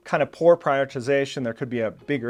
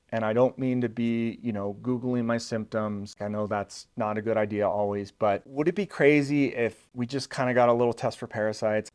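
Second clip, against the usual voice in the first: humble calm asking. Shown as a demonstration. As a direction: ask the doctor humbly, rationally, without pushing. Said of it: "I'm gonna ask in a humble, calm, and rational way".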